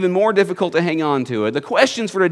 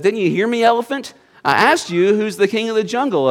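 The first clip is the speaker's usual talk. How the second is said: higher-pitched indignant demand; lightly acted miffed lion; affronted lion; 4 semitones higher than usual. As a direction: insist on an answer, voice pitched up. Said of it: "The elephant ignores him for a moment".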